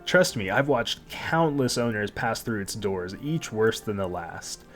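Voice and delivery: proud, scolding guardian cat; haughty magic cat. Acted. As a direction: lecture the naive newcomer haughtily. Cat guardian lectures the owner.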